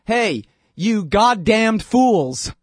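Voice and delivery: imitating the leader insulting Americans, hammed-up; mock contemptuous insult. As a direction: spit the insult out slowly at the listener. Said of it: "he says to you".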